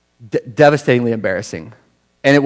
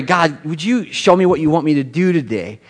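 sincere prayer. Retold or imitated. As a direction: ask God gently for the day. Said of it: "And then I pray".

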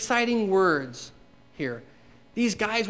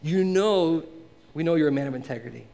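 mock flattery. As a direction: lay on the flattery, lightly sarcastic. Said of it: "I don't wanna be too sarcastic".

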